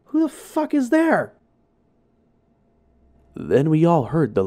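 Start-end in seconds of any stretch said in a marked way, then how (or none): 0.1-1.3 high shouted challenge into the dark; shouting. Retold or imitated. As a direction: yell it out, adrenaline up. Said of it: "I started shouting".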